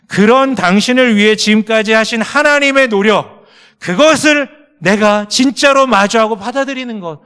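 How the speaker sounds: loud, high, driving sermon climax; full-force preaching. Acted. Pastor urging the congregation to face God's love, loud fervent preaching. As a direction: preach it out, pressing every phrase.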